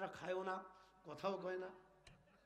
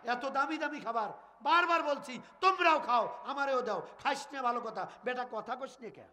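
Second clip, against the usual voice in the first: scolding; 5 semitones higher than usual. Acted. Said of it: "ধমক দিয়ে রাগ করে বলতেছে".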